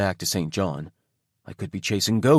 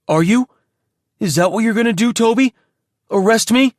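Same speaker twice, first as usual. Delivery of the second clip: challenging; 12 semitones higher, 6 dB louder than usual. Acted. Creed challenging Toby.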